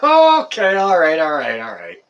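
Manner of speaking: high burst of laughter into words, falling as it settles; laughing. Real, not acted. Streamer reacting to a fart joke, laughing. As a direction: try to regain control mid-laugh. Loses it over a chat joke.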